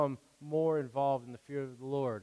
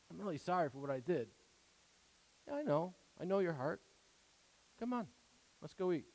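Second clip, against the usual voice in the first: simple sincere apology; 7 dB quieter, faster than usual. Pretend. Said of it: "One that just says".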